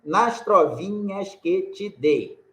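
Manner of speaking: "Nas trovinhas que te dei" said slow, each syllable apart, stress on dei; scanning syllables. Shown as a demonstration. Teacher showing students the seventh syllable, slow scansion. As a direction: count out the syllables slowly, landing on dei. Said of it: "deixa eu mostrar pra vocês".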